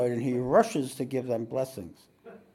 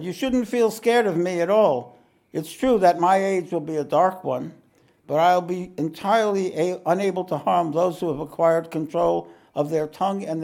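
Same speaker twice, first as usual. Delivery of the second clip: giant reassuring; 5 semitones higher, 6 dB louder than usual. A narrator's reading.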